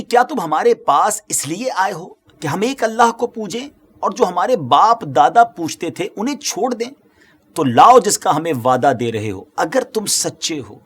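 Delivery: mildly acted defiant questioning; brazen, insolent challenge. Proud disbelievers answering their prophet back, mildly brazen challenge. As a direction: throw the challenge at the prophet with some swagger. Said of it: "نہایت بے باکی اور گستاخی کے ساتھ".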